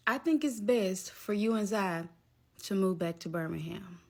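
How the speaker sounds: imitating a mellow, emotionless caller; mellow, neutral tone. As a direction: deliver the news evenly, softening at the end. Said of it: "her tone is, like, so mellow".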